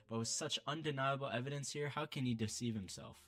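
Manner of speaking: out of breath from reading; running out of breath, words pushed out. Real, not acted. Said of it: "I'm running out of breath".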